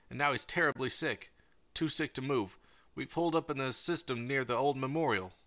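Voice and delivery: going through the motions of a call for help, hushed; resigned radio plea. Acted. Looping broadcast from a stranded parent, soft hopeless plea. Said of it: "A voice was filled with a terrible resignation".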